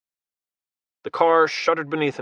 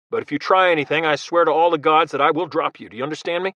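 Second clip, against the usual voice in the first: stern warning; 3 semitones higher, 4 dB louder than usual. Acted. Logan warning the Russian.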